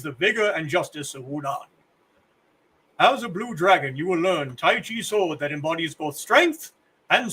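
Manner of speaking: lightly voiced old kung fu master; a hint of a solemn elderly teacher; old man voice. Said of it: "It's the old man voice again".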